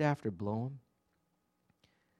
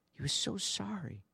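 tender sorrow; 8 semitones higher, 8 dB quieter than usual. Acted. Stresses Peter's remorse.

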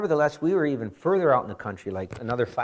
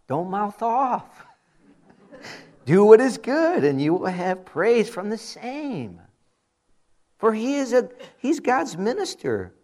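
full-force preaching; 8 semitones higher, 6 dB louder than usual. Acted. Pastor urging the congregation to respect authority, preaching at full force. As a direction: drive each phrase home to the pews.

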